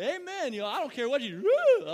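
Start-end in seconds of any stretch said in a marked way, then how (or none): 0.0-0.5 high-pitched church amen; sudden high holler from the pews. Shown as a demonstration. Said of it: "you can holler up". 1.4-1.9 loud, high whoop; whooping it up loudly; hollered whoop. Shown as a demonstration. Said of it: "you can holler up".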